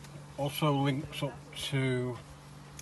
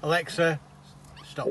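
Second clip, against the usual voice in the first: louder, firm command to the speaker; 3 semitones higher, 3 dB louder than usual. Real, not acted. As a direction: cut Alexa off firmly. Stopping the call on Alexa.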